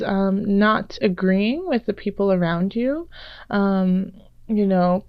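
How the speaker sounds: slightly raspy, sick voice; a touch of hoarse rasp from a cold. Real, not acted. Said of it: "if I sound a little bit more raspy than usual".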